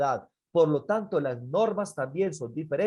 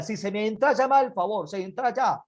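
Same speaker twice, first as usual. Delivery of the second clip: raised, insistent parental order; scolding father; 5 semitones higher than usual. Acted. Father orders son indoors, raised and impatient. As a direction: act a dad losing patience.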